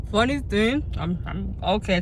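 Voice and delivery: talking while chewing; words round a bite of wrap; mouth full. Real, not acted. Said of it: "Talk with your mouth full".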